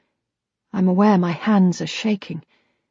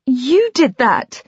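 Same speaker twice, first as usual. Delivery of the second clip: higher and slower, insisting; angry accusation; 6 semitones higher, slower than usual. A narrator's reading. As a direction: jab the words at him. She accuses him of the wound.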